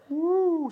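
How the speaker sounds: high, loud whoop; woo. Acted. Comedian whooping to the crowd mid-story, high woo. Comic exclamation in telling story.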